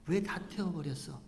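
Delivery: building to a loud, high scolding; angry Moses. Retold or imitated. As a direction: Moses shouting at Aaron's sons, growing furious. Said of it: "막 화내는 거예요".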